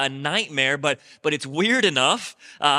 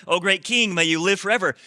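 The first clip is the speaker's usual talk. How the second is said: higher, louder flattering plea to the king; flattering wise men; 4 semitones higher, 4 dB louder than usual. Retold or imitated. Preacher repeating the wise men's greeting, hammed-up flattering. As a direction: lay the flattery on thicker this time. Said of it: "if you're ever in front of a tyrant".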